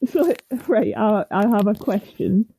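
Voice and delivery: muffled, far from the mic. Real, not acted. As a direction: sound muffled and distant. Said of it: "you've gone even more muffled than before".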